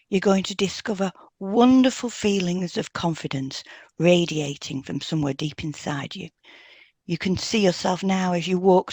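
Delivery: hypnotic suggestion. Shown as a demonstration. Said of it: "an example of a post-hypnotic suggestion I might use would be".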